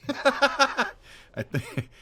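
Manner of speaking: lightly voiced New York accent; a hint of New York attitude. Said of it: "from a New York to a Southern accent".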